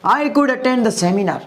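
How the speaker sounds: slow, careful English sentence; slow model sentence. Shown as a demonstration. Teacher models the English sentence slowly for students. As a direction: say each word slowly for the class to copy. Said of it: "example is the best way".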